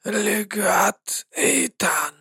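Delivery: soft, slow address; quiet. Acted. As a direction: speak the name very softly and slowly. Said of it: "тихо проговорил песочный человек".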